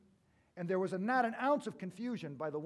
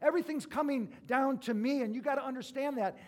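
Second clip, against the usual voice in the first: mock proclamation; 6 semitones higher, 4 dB louder than usual. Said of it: "He's pointing that".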